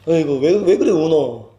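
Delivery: slow, fond Gyeongsang cooing; loving consolation. Retold or imitated. Parent to a crying child, loving and slow. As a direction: comfort tenderly, drawing it out. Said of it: "사랑스러워서".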